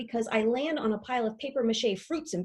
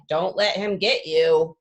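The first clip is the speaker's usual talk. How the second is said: rabbit's advice; 5 semitones lower, 5 dB louder, slower than usual. Acted. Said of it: "She's all like".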